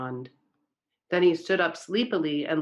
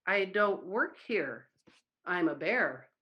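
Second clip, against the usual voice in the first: meek bear voice; 5 dB quieter than usual. Acted. Bear answers the foreman meekly.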